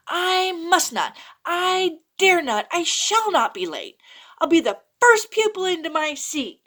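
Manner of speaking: put-on boy promises himself not to be late, earnest; determined resolve. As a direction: vow it to yourself like a keen pupil. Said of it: "I said to myself".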